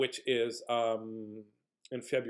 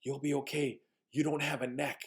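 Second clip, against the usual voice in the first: softly imitated matter-of-fact child; little boy reassuring; 4 dB quieter than usual. Little boy calming the scared visitor, soft reassurance. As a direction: reassure in a small, quiet boy's voice. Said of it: "he looks at me like this".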